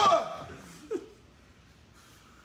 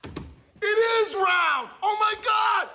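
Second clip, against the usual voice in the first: slow stunned yell of disbelief; shocked shout; 3 semitones higher, 3 dB louder, slower than usual. Acted. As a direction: scream the discovery. Shocked discovery in sketch.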